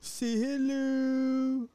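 high, slow "say hello" to a bird; teaching a parrot. Retold or imitated. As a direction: coax it like a pet parrot. Mimicking the parrot clip's "say hello.

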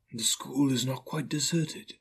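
understated spectral announcement; solemn ghost. Acted. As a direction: speak gently as a sorrowful spirit. Ghost sadly describes lonely child.

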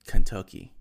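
Kentucky boomed out, first syllable stretched long; proudly belting out Kentucky, stretched. Acted. Stretched proud Kentucky, then laughs.

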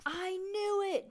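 high, loud, drawn-out outburst; blurted out. A narrator's reading. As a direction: blurt it out in triumph, stretching the words. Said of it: "Judy blurted".

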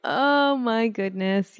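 slow, loud, stretched dismay; shocked. Real, not acted. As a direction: gasp it out, stunned. Reacting to budget overrun.

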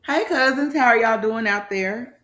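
big energetic hello; loud greeting. Real, not acted. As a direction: call out to listeners. Podcast host greeting.

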